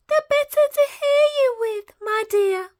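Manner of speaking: put-on wolf answering the girl, croaking. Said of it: "croaked the wolf".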